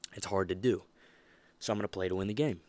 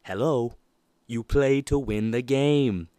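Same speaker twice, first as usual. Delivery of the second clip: retold coach yell; 4 semitones higher, 8 dB louder, slower than usual. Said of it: "he says".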